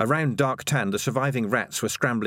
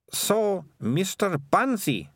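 put-on high, slow disdainful girl; scornful Melissa; 9 semitones higher, much slower than usual. A narrator's reading. Melissa dismissing the childish book, slow scorn. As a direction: draw out the name with disdain.

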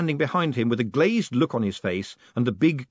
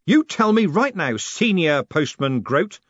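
loud, high start, drawn-out title; snapped order; 7 semitones higher, 6 dB louder, slower than usual. A narrator's reading. Moist demanding answers from the old man, snapping. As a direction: order him firmly, leaning on each word. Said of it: "he snapped".

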